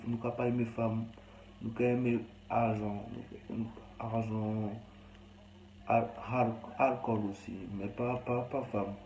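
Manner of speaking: halting, badly done Creole; rough Creole accent. Streamer saying what he likes, in rough put-on Creole accent. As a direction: attempt a clumsy Creole accent. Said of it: "mon créole, mon accent est dégueulasse".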